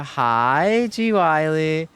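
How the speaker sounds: a hint of a hungry ogre; Shrek-like voice. Streamer greeting a viewer in a light ogre voice. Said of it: "That's literally like Shrek".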